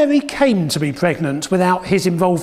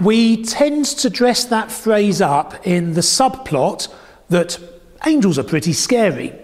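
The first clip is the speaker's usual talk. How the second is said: ordinary delivery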